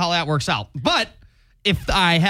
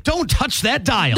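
slow, higher mock announcer voice; old-time radio announcer; 7 semitones higher, slower than usual. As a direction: play up the classic radio catchphrase. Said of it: "as they used to say in the radio biz".

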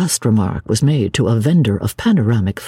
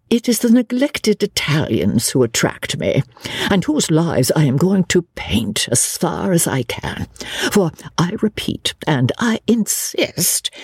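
lightly voiced, higher-pitched literary lady; opinionated lady novelist; 5 semitones higher than usual. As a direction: hold forth with a touch of self-importance. Lady novelist holds forth.

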